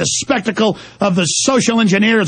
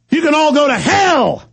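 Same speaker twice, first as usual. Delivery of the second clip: higher shout flung at listeners; angry shout; 6 semitones higher than usual. Real, not acted. Rant at listeners.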